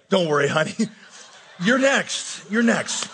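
teasing imitation of patronizing comfort; mock condescension. Single man gets back at old ladies at funerals, mock-consoling. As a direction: tease with fake sympathy and a laugh. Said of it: "go up to those same little old ladies".

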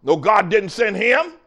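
usual speaking voice

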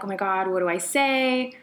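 rushing through her thoughts, unsure what to say; panicked inner voice. Retold or imitated. Remembering her panic on the metro, fast and flustered. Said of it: "And I just was like".

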